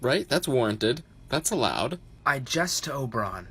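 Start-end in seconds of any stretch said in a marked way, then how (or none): 2.3-3.5 put-on English accent. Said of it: "No, you are not English".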